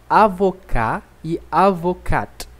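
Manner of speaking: slow, "avocat" first with a silent T, then with the T sounded; French pronunciation demo. Shown as a demonstration. Teacher showing masculine and feminine sound, slow contrast. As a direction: contrast the two "avocat" slowly. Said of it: "a diferença é o som do T".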